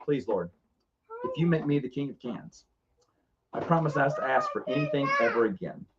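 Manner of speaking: quietly bargaining in prayer; retold earnest prayer. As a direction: say it as a small private prayer.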